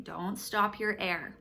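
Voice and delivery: slow coaching. Shown as a demonstration. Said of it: "just to help them remember".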